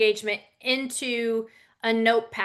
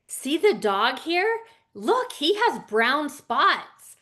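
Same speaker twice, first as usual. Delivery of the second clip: higher, lively, slow and sing-song; animated storytelling; 4 semitones higher, slower than usual. Shown as a demonstration. Speaker demoing reading to a four-year-old, animated and sing-song. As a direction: make a small child light up. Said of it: "are you gonna read it to the four-year-old?".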